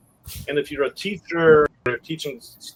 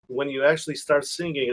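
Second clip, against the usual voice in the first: normal talking voice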